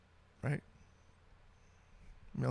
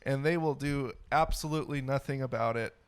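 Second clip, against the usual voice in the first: unenthusiastic ad read. Pretend. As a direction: plod through the sales pitch. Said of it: "lack of enthusiasm in that was just stellar".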